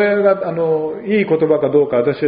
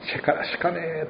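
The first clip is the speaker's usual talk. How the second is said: mock Oita dialect; 11 dB quieter than usual. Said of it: "あったしょげな言葉使うて".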